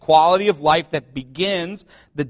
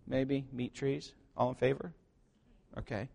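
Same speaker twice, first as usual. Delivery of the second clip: wry aside; 3 semitones lower, 12 dB quieter than usual. Real, not acted. Quiet aside.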